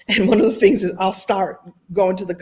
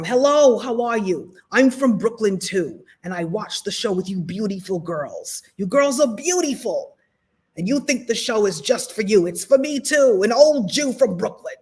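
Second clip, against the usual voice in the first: put-on old Jewish man from Brooklyn. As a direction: imitate an effusive old Brooklyn gentleman. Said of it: "a little old Jewish man".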